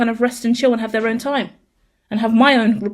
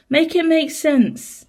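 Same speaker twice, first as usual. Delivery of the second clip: "Make it make sense" drawn out slowly and higher, each word separate; slow exasperated plea; 7 semitones higher, much slower than usual. Real, not acted. Owner pleading with her cat, slow and higher. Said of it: "exasperated plea to the cat".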